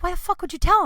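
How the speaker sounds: a light imitation of Adam's disbelief; mock angry Adam. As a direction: play the annoyed friend asking why. Adam angry at her, quarrel.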